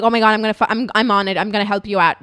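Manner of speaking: loud, urgent imagined responder; urgent sympathy. Retold or imitated. Responder as she wishes they were, loud urgent sympathy. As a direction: jump in emphatically, eager to help. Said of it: "Show us some sympathy".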